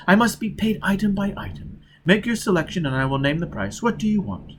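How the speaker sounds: a hint of a wily Italian trader; lightly voiced haggler. Disguised agent haggling with Foyle, mild sly trader voice. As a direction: bargain smoothly, item by item. Poggi bargaining.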